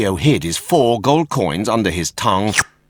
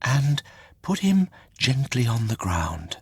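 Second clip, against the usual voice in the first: commanding; 4 semitones higher, 5 dB quieter than usual. A narrator's reading. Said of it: "she commanded".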